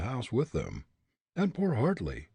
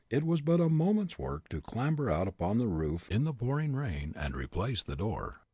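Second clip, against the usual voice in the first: usual speaking voice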